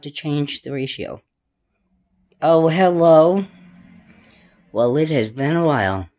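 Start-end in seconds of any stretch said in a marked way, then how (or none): 2.4-3.5 drawn-out greeting. Real, not acted. Greeting the light.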